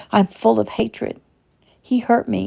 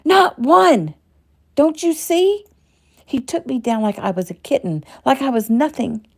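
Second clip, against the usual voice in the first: higher and louder, spilling over in rage; shouting; 7 semitones higher, 4 dB louder than usual. Acted. Shelley raging at her own weakness in therapy, shouting. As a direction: shout it at yourself, furious. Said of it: "Shouting now".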